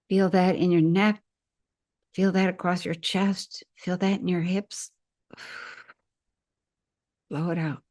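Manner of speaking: even, measured meditation voice with long pauses; guided breathing. Real, not acted. Leads guided breathing exercise.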